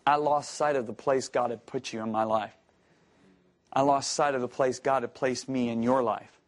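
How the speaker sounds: low, measured confession; retold earnest apology. Former employee phoning his old boss to apologise, earnest.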